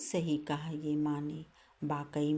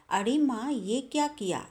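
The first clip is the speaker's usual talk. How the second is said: a loud, high cry of dismay at the soaked bed; startled protest; 6 semitones higher, 3 dB louder than usual. Acted. Son jolted awake on a wet bed, crying out in loud dismay. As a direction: jolt up and yelp at mother.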